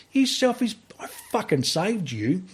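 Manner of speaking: a high burst of anger, then the voice drops; furious retort. Retold or imitated. A rescuer snapping back at the woman he saved, furious. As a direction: snap at her in rising anger.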